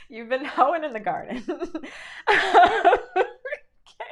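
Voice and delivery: can't hold back the laughter; laughing. Real, not acted. Cracking up over the card message to viewers, laughing. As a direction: giggle through the words.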